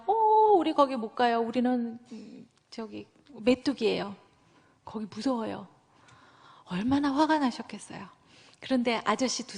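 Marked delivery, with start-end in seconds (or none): 0.1-5.7 mock fearful whimper. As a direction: act out the timid spies, backing away. Fearful spies' report. (겁먹은 정탐꾼 흉내, 점점 작아지게)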